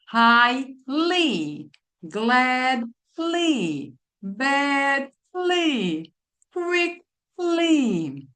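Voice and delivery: rising pitch. Shown as a demonstration. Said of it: "can hear when I'm saying".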